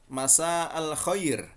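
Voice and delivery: "Masa al Khair" slow, with a long "Masa" and "xoir"; Fusha pronunciation. Shown as a demonstration. Teacher repeating the formal greeting slowly. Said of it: "dalam pengucapannya bahasa Arab resmi".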